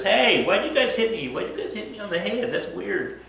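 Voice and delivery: high, bewildered, hurt complaint; baffled Rasputin. Retold or imitated. Rasputin asking the nobles why they hit him, high and bewildered. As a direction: play him puzzled and wronged.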